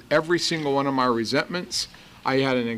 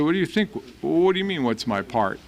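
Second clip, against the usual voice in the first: arrogant retort; 3 semitones higher than usual. Retold or imitated. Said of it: "And I was really arrogant".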